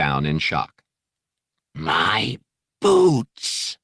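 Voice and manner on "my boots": harsh strained snarl, rising higher and louder, half breathless. Acted. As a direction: spit out the words like a grating alien growl. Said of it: "he snarled".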